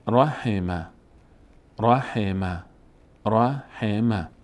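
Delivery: "رحمه" run together as one word; joined up. Shown as a demonstration. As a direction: blend "رحمه" into ra-he-ma without gaps. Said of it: "پشت سر هم بخوایم بخوانیم". (پشت سر هم)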